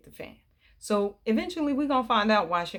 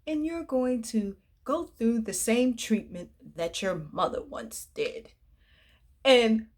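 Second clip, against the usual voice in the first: a hint of a strict mother laying down the law; Victoria's mother voice. Vlogger voicing Victoria's mother scolding both kids, lightly stern. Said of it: "Let me get my Victoria mother on".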